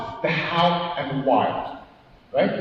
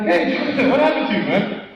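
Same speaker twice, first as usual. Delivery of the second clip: high, laughing "what happened to you"; laughing greeting; 5 semitones higher than usual. Retold or imitated. Greeting a friend who got bigger, laughing and high. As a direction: tease him through a laugh.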